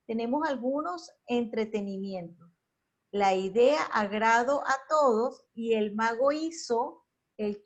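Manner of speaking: deliberate reading with the accent marks ignored; reading without written accents. Shown as a demonstration. Teacher reads a text missing its tildes to the class, reading without accents. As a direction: read aloud, trying not to stress the accented vowels. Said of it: "Traté de leerlo sin el acento marcado".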